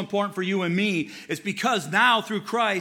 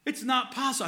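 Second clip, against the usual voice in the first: settling worked up; 5 semitones higher than usual. Real, not acted. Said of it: "I'm getting worked up".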